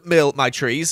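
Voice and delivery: talking through a hiccup. Real, not acted. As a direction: hiccup breaks the words. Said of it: "There's the hiccup".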